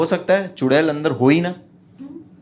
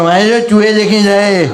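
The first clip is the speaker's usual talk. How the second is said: slow, loud, strange enraged voice; furious Abakadar; 6 semitones higher, 8 dB louder, slower than usual. Retold or imitated. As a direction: bellow it slowly like a mangled old man. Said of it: "अबा कदर भड़क गया".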